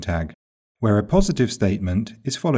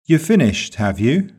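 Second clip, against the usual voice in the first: sarcastic rising tag; 5 semitones higher, 3 dB louder than usual. Shown as a demonstration. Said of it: "used to show sarcasm or suspicion".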